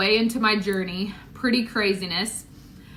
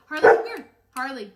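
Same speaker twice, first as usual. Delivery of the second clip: calling the dog; 3 semitones higher, faster than usual. Real, not acted. Calling her dog over.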